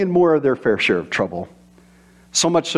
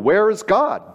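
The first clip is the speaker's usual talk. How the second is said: a little sterner, firmer question; slightly sterner; 7 semitones higher than usual. Acted. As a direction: press the question a bit harder. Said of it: "in a slightly sterner tone".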